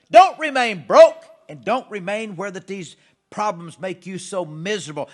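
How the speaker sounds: exhorting shout. Real, not acted. Preacher urging viewers not to stay broke, loud exhortation. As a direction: hammer it home to the crowd.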